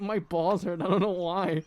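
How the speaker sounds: laughing through the blunt confession; half-laughing, honest admission; laughing quote. Retold or imitated. Retelling what he told the guy, laughing. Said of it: "super honest".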